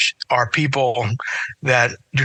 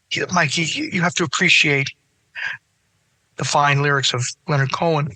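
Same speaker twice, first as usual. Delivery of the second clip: Cactus voice. Retold or imitated. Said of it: "he wasn't really doing the Cactus voice. I just do it".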